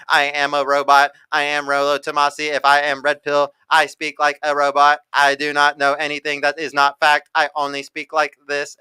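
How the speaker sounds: lightly mock a stiff robot reading facts. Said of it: "what I've been memeing him for".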